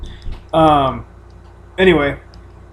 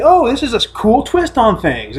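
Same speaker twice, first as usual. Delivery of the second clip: slow mock delight; 5 semitones higher than usual. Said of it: "it was like".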